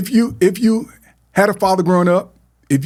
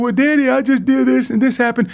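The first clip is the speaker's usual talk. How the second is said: put-on little girl voice; 8 semitones higher than usual. Daughter explaining to her father.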